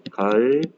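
갈등 pronounced 갈뜽, syllables separated; tensed consonant demonstration. Shown as a demonstration. Teacher showing the Sino-Korean rule, 갈등 as 갈뜽. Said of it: "이렇게 바뀌게 되는 경우".

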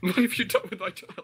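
put-on British accent. Mimicking the British friend's question, put-on British accent. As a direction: parrot it back in a mock British accent. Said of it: "I'm a Brit".

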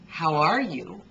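"How are you?" as one unbroken voiced stream, words glided together; no gap between "How", "are" and "you"; smooth linked phrase. Shown as a demonstration. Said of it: "sounds smooth".

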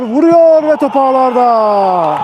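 rising, drawn-out goal shout; goal call. Acted. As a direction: stretch it as the ball goes in. Commentator calls a goal. (gol anonsu coşkusu)

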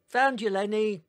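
high excited shout. Acted. Ellie finds her brother hiding, shouting happily. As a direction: call it out gleefully, loud and high. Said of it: "she shouted".

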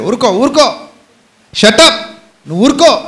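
high-pitched mock scolding; scolding rebuke. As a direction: imitate people sharply hushing someone. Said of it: "అని గద్దిస్తున్నారు".

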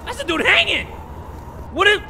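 shocked realization of a hanging body. Real, not acted. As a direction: gasp it out in real horror. Finds a hanged body in game.

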